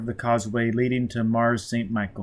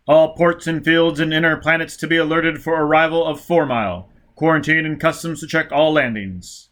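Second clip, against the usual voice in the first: loud, higher announcer reading out orders; official broadcast voice; 4 semitones higher, 5 dB louder than usual. Acted. Police radio bulletin announcing the war crisis, loud and clipped. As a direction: bark out the emergency bulletin.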